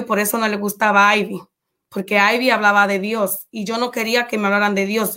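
ordinary delivery

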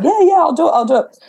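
brushing it off with mock eagerness; eager agreement. Retelling her own eager promise.

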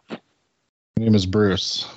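low, falling, grudging delivery of the title; disapproving tone. Real, not acted. Host reluctantly introducing the movie, disapproving tone. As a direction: say the title with an unimpressed drop in pitch. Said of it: "Don't say it with that tone".

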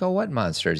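lightly voiced father leaning in; dad's gentle question.

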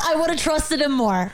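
laughing through the words. Real, not acted. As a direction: say it while laughing. Repeated, laughing.

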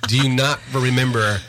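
high-pitched, mock-innocent questioning; sarcastic uncle. God reminding Job he missed creation, sarcastic. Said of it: "I hear this really sarcastic uncle".

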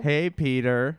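a little rounder cartoon greeting; Cleveland Brown. Actor following his coach's note, slightly rounded character voice. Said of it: "Make, make a little round".

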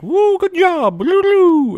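a gleeful little genie cheering as he flies off; mock high-pitched celebration. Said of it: "he's like".

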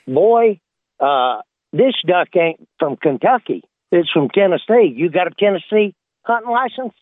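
lightly voiced warden, pitch jumping up on Boy; a game warden questions a hillbilly, mildly stern; a hint of a stern warden. A game warden grilling a hillbilly on his ducks, lightly gruff. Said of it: "and he says".

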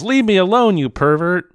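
high-pitched mock yell; retold yell. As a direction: imitate an outraged girl yelling at a man. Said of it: "and she yells".

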